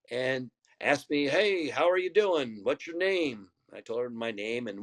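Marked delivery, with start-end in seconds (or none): 1.3-3.5 drawn-out, friendly greeting, lightly imitated; friendly small talk. Lady greets a visiting ballplayer at the KTV, friendly. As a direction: imitate someone being nice and chatty. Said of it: "being nice and being friendly".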